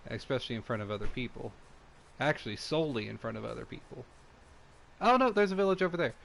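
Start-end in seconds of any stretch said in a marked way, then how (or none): 5.0-6.1 sudden high, loud oh no; surprised. Real, not acted. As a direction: caught out, alarmed. Streamer spots village, caught wrong.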